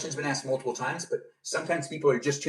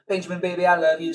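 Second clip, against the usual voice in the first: higher mimicked Southern endearment; Southern accent; 4 semitones higher, 3 dB louder than usual. Streamer repeats a viewer's pet name, Southern accent. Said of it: "has to be in a Southern accent".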